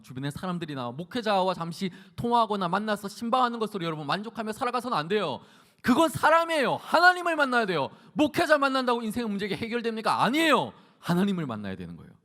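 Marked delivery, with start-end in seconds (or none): 5.8-10.7 high, loud sermon cry; forceful preaching. Acted. Preacher refuting human comfort to listeners, forceful preaching. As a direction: challenge the congregation at full voice.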